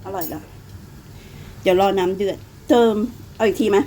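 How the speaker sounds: usual speaking voice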